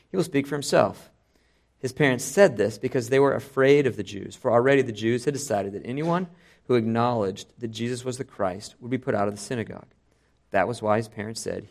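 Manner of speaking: reading the passage aloud with voiced characters; preacher reading John chapter nine aloud to his standing congregation, dramatically; dramatic scripture reading. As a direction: tell the Gospel story to the congregation, acting the speakers.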